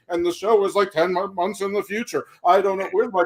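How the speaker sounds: lightly voiced rambling Tony Khan, eager and scattered; a hint of an overexcited wrestling boss; playing AEW boss Tony Khan, mildly excited; Tony Khan impression. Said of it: "I could do a Tony Khan impersonation".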